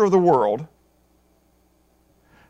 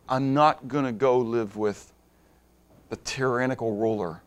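usual speaking voice

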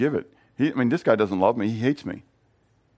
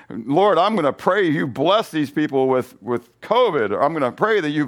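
raised, hammed-up pleading to God; mock vengeful prayer; 4 semitones higher, 4 dB louder than usual. Preacher mocking his own prayer, hammed-up and raised. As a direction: pray sarcastically for covid on them. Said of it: "that's my kind of praying".

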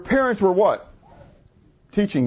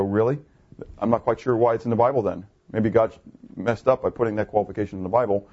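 sarcastic retort; 8 semitones lower than usual. Retold or imitated. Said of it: "And I go".

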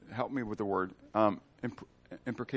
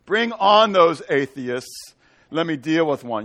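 slow, louder boast of fake courage; mock bravado; 2 semitones higher, 7 dB louder, slower than usual. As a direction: puff yourself up, drawn out. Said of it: "Feeling pretty bravado and everything".

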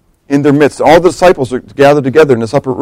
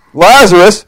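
Lazarus call; 5 semitones higher, slower than usual. Pretend. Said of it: "so I'm gonna do it".

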